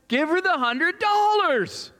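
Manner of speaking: high, slow, drawn-out divine command; Holy Spirit's voice. Retold or imitated. The Holy Spirit telling the preacher to give, slow and solemn. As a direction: speak it like a voice from heaven, slowly. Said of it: "what do you think the Holy Spirit tells me".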